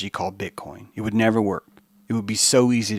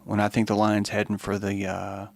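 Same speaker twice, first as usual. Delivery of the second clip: much higher, playful giraffe voice; a sly giraffe playing innocent; lightly voiced innocent giraffe faking a yawn; 3 semitones higher than usual. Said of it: "He decided a long time ago".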